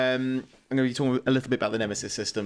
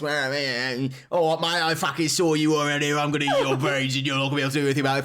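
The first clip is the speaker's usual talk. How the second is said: lightly put-on game villain voice; a hint of a voiced orc captain taunting; Troy Baker. Podcaster impersonating a ranting orc captain, lightly put-on voice. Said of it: "That's my very good Troy Baker, uh, impression".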